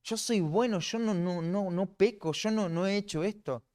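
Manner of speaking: self-justifying sinner. Retold or imitated. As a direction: play the liar insisting he's good. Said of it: "nos autojustificamos". (imitando a alguien que se justifica)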